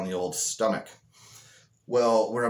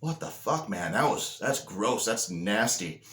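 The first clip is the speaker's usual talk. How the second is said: mock grossed-out, softly playing it off; feigned innocent disgust; 3 dB quieter than usual. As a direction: act lightly disgusted to dodge the blame. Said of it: "I'm just playing it off like".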